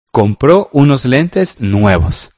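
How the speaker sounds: slow and deliberate, each word laid out; teacher giving an example sentence to the class, slowly. Shown as a demonstration. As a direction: read the example slowly so students can follow. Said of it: "yo tengo una, la voy a decir".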